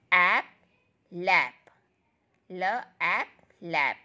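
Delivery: sounding out ल, ऐप, then लैप; phonics blending. Shown as a demonstration. Teacher sounding out letters for kids, blending slowly. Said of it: "the sound of L will comes like ल".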